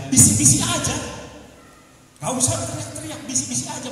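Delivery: emphatic preacher; forceful preaching. Acted. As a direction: drive the phrase home.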